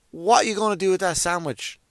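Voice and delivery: acted pointed query. Acts out pointed question to clerk.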